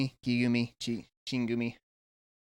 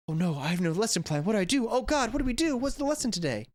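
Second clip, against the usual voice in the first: rising, flustered panic; hammed-up panic, higher and higher; panicked rookie teacher; 5 semitones higher than usual. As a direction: act the lost new teacher scrambling. Panicked first-year teacher, acted.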